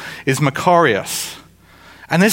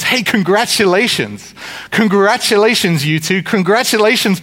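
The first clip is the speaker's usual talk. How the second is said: raised pitch on each cheer; hearty congratulations; 5 semitones higher than usual. Acted. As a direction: congratulate them like a delighted wedding guest. Acted congratulations at weddings.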